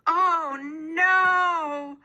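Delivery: high, loud upset cry; unhappy. A narrator's reading. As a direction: wail it in dismay. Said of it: "said Hannah unhappily".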